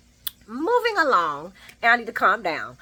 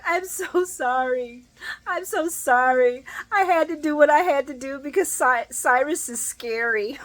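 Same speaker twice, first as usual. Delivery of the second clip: mock sorry Austin; 6 semitones higher than usual. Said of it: "And he's like".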